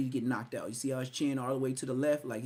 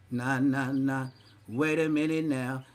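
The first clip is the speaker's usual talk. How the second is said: louder hyped intro voice; imitating the intro; 5 dB louder, slower than usual. Mocking a rapper's song intro, a louder hyped delivery. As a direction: hype it like a rap intro. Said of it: "he's the intro".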